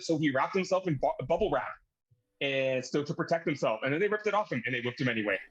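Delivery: eager, rapid robot-like recital. Retold or imitated. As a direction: rattle off facts like a robot. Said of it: "like a freaking robot".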